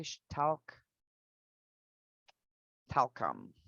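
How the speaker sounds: talcum said low and slow, TAL-kum; careful pronunciation. Shown as a demonstration. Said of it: "I did a C".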